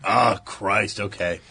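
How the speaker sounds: resigned, low mock sigh of agreement; reluctant giving in. Voices a reluctant boyfriend giving in.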